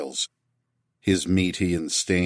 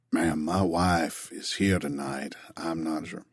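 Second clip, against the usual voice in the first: softer, slower murmur; lower voice; 6 dB quieter than usual. A narrator's reading. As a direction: drop the voice to warn her quietly. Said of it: "in a lower voice".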